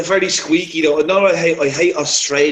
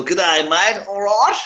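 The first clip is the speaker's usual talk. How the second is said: mock Australian; 3 semitones higher, slower than usual. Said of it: "the Outback are cool".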